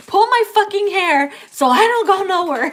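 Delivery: high, loud, laughing through the words; can barely get it out for laughing. Real, not acted. Laughing through acted plea.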